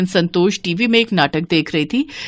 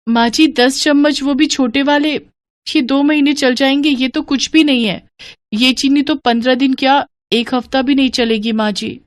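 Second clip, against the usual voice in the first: put-on higher-pitched young wife's complaint; protesting daughter-in-law; 6 semitones higher than usual. Daughter-in-law objecting to the meagre sugar ration, higher-pitched protest.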